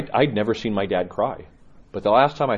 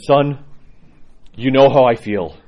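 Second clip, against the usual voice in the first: son, raised voice, choked with feeling; dying father's loud words; 8 dB louder, slower than usual. Retold or imitated. Father on his deathbed to his son, loud and emotional. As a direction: call it out, loud and raw. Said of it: "he says".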